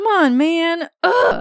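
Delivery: very high, fed-up, irritated kindergartner groan. A father imitating his kindergarten daughter's new habit: imitating an irritated child. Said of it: "always irritated with me".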